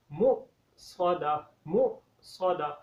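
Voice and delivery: मुक़स्सदा with a sharp stop on the sakin hamza, slow; jerk on sakin hamza. Shown as a demonstration. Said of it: "झटका लगा के पढ़ेंगे हम". (मुक़स्सदा में हमज़ा साकिन पर झटका)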